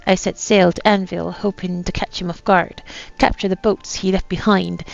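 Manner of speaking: put-on light pirate accent reading a captain's journal; lightly voiced pirate accent, a gruff old sea captain. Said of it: "you don't have to put up this accent anymore".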